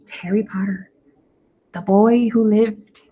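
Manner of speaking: a secret toast, barely voiced; hushed toast. A narrator's reading. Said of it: "saying in hushed voices".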